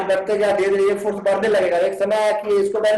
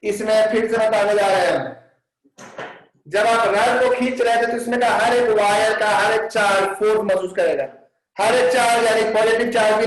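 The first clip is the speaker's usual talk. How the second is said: louder; 3 dB louder than usual. Real, not acted. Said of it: "जोर से बोलेंगे".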